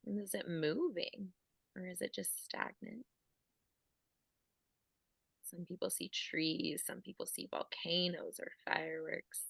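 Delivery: soft guided visualisation voice; guided meditation. Acted. Coach guiding listeners through their inner images, guided meditation. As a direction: lead them inward softly, leaving room to notice.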